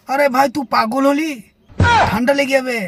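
mocking a snooty villager back from the city; snobbish friend. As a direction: play the stuck-up returnee appalled. Mocking the returned snob friend.

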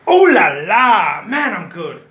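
a slow, loud, hammed-up Oh la la; mock bragging. Admiring his own ballerina sketch, mock boastful. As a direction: show off, tongue in cheek.

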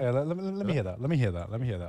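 ASMR whisper. Pretend. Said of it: "Baguette A S M R".

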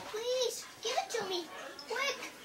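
high-pitched pleading; acted frantic begging, high up; begging witch. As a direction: plead as if sinking in mud. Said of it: "she begged".

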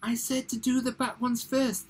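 high-pitched insistent croc; theatrical high crocodile call. A narrator's reading. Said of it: "the crocodile called out".

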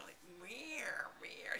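whispered mock cat meow; catty meow. Imitating a catty rival with a whispered meow.

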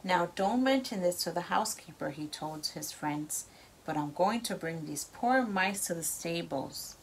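lively storybook read-aloud; reading to children. A narrator's reading. Parent reads story to child.

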